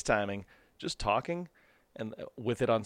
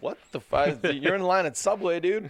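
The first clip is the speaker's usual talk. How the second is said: misplaced anger; 6 semitones higher than usual. Retold or imitated. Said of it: "You're like".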